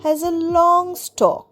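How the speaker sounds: slow, clear example sentence. Shown as a demonstration. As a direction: read it out slowly for learners. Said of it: "slow teaching example". (ধীরে ধীরে উদাহরণ বাক্য)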